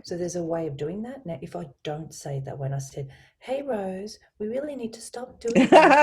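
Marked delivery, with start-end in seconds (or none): 3.4-6.0 very high, loud, over-bright mock cheer; sarcastic. Shown as a demonstration. Coach showing colleague the wrong way, high loud sarcastic chirp. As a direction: overdo the sparky pitch so the telling-off rings false. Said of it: "It sounds a bit sarcastic".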